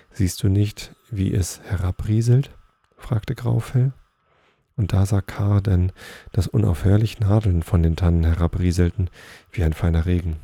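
measured read-aloud storytelling voice; story narration. A narrator's reading. Reading Nils Holgersson to listeners, story narration. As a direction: read the tale out clearly, phrase by phrase.

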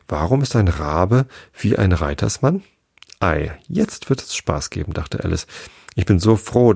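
lively read-aloud storytelling; story narration. A narrator's reading. Reader telling Alice to sleepy listeners, lively narration. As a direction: read it to children at bedtime.

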